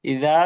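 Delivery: ইযা with a careful dhal; teacher's model of ইযা; dhal makhraj. Shown as a demonstration. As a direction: articulate the dhal in ইযা, long final vowel. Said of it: "দালের মাখরাজটা আদায় করব".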